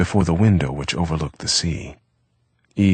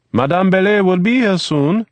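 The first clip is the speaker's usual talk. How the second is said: higher, louder call from another room; 7 dB louder than usual. A narrator's reading. Eve calling to Eric from the kitchen, loud call. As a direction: keep calling across the house. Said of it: "he called".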